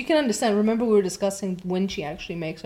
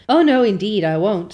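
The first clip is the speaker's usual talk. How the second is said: eager Anne; 5 dB louder than usual. Acted. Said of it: "said Anne eagerly".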